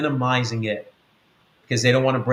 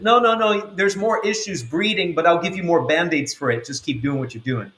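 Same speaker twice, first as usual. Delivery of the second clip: higher, coaxing voice of a tempter, then fading; mock Satan soothing; 4 semitones higher than usual. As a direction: brush off the hurt like a sly tempter. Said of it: "He just minimizes it".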